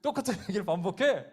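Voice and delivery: high, loud exasperated outburst; hammed-up furious squawk; angry devil. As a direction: rant like a devil losing his temper. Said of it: "마귀가 화를 내더래요".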